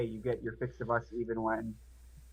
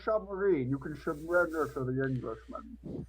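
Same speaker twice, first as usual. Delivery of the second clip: submarine voice impression; 5 semitones higher than usual. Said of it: "submarine voice impression".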